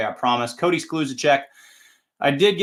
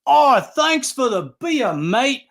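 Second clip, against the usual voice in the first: imitating South African accent; 8 semitones higher than usual. Fan thanking the announcer for beer, in a mock South African accent. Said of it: "And I'm hearing this accent".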